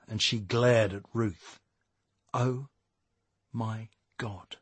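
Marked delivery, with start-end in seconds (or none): 2.3-4.6 shocked. A narrator's reading. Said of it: "she gasped".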